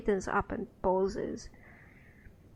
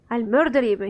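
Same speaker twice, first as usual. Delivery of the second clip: angry threat; 6 dB louder than usual. Acted. Quint furious at Farod.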